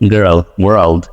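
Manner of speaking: American গার্ল ওয়ার্ল্ড; American accent. Shown as a demonstration. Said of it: "আর ওরা বলে কি?".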